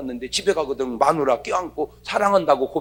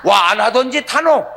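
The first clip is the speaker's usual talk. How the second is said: startled wife; 3 semitones higher, 6 dB louder, slower than usual. Retold or imitated. A wife at the sink startled by her husband's hug, loud. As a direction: jump at the sudden hug.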